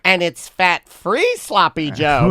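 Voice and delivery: slow, lightly voiced mom; mom's announcement. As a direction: draw it out as a mom revealing a trick. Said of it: "My mom would be like".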